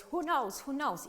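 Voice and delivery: loud, pressing teacher quiz; quizzing teacher. Retold or imitated. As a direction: call it out like a strict teacher. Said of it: "Children always".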